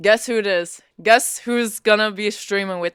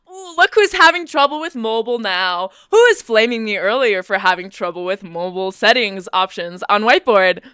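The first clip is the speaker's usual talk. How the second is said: taunting; 3 dB louder than usual. Real, not acted. Taunts viewer who mocked them earlier.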